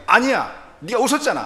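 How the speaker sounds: loud, high, curt rebuttal as God; God coldly contradicting Sarah's denial. Retold or imitated. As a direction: shut her down flatly and firmly. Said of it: "하나님이 매몰차게".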